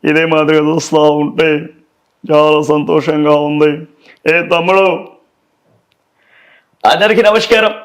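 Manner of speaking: lightly voiced film star thanking fans; a slow hint of a hero's stage speech; mild celebrity voice for the fans; star impression. Shown as a demonstration. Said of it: "Balakrishna గారి లైన్లోనే".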